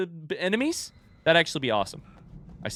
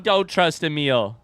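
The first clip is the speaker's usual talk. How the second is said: slow falling repeat, thrown back in disbelief; incredulous echo; slower than usual. Real, not acted. Player questioning Gabe's late warning, incredulous echo.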